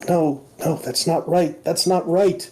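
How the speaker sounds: high, fretful no; agitated denial. Acted. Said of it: "It seems very agitated now".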